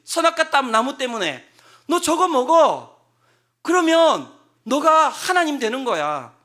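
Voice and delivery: loud, high, slow serpent's goading; loud tempter. Retold or imitated. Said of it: "이렇게 한 거예요".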